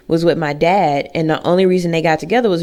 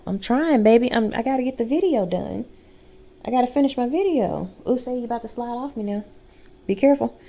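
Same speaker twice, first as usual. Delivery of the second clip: higher, soft coaxing to a pet; 4 semitones higher, 5 dB quieter than usual. Real, not acted. Pleading with the dog to let her film, softly higher. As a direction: coo at the dog on your lap.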